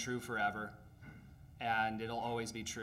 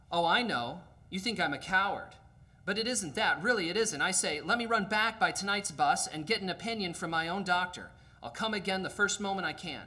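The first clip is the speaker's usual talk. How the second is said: higher, louder, hurried and nervous; excuse-making ghost; 5 semitones higher, 3 dB louder than usual. Acted. Ghost makes nervous excuses to the angel. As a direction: talk fast to wriggle out of it.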